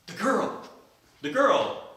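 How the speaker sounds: eager. Acted. Johnny eager for the girl.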